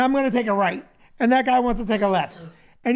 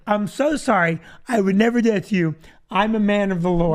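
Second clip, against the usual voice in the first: polite apology; 2 semitones lower than usual. Shown as a demonstration. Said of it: "Wait, I say it like this".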